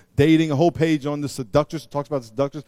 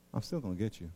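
mock quiet threat; 8 semitones lower, 15 dB quieter than usual.

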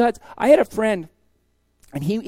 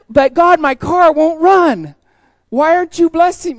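loud, high, slow wail with a laugh; laughing, hammed-up plea to heaven; mock whiny complaint; 8 semitones higher, 9 dB louder, slower than usual. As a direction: ham up a pouting protest to God.

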